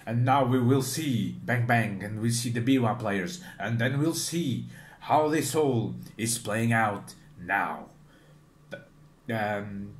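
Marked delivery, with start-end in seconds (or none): 0.0-7.9 narrator voice. Retold or imitated. Vlogger imitates the anime narrator recapping the scene, lightly dramatic. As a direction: intone it like a story narrator, half-mock. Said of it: "the narrator goes like".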